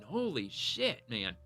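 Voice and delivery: slow amazed exhale; awed surprise. Real, not acted. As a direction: let the numbers stun you. Reacting to arrest numbers.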